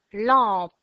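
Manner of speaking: "Lampe" loud, split as lam, pe; syllable by syllable. Shown as a demonstration. Teacher names the second drawing, syllable by syllable. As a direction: pause before the final pe of "Lampe". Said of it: "Deux syllabes".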